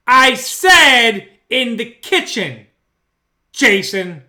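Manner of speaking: very slow, drawn-out disembodied voice; ghostly voice. Retold or imitated. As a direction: intone it like a presence in the room. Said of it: "this voice".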